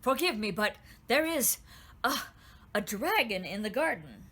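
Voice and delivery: breathless urgent report; out of breath. Acted. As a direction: gasp it out after running. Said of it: "out of breath and bowing low".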